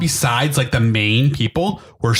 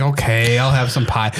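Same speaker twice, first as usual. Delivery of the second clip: lower, mildly grudging voice; grudging acceptance; 4 semitones lower than usual. Pretend. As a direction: give in with put-on reluctance.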